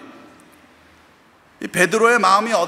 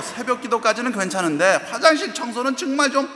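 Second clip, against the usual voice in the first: raised, higher pleading protest to mother; exasperated protest; 5 semitones higher than usual. Retold or imitated. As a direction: push back in disbelief, pitch climbing. Son protests to mother, retold.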